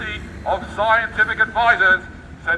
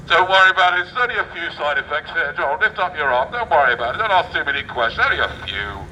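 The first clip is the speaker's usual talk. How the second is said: mock doctor; 4 semitones lower than usual. Mock doctor reassuring patient.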